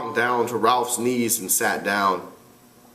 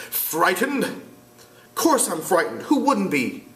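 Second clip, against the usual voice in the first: put-on boy voice; 8 semitones higher than usual. Jack voiced.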